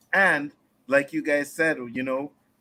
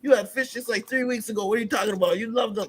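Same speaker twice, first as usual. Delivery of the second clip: much higher, exasperated dad voice; mock dad; 9 semitones higher, faster than usual. Dad telling his son he loves fish sticks, mock exasperated and high. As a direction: imitate a father brushing off his picky son. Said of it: "He's like".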